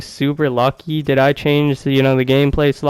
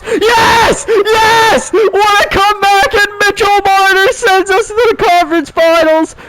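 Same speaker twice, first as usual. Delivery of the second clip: triumphant shout. Real, not acted. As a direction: scream for the winning goal. Series-winning goal.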